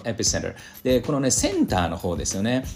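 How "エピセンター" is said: エピセンター with the first syllable stressed; pronunciation model. Shown as a demonstration. Teacher models エピセンター for students, first syllable stressed. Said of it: "Aが強いんですけど".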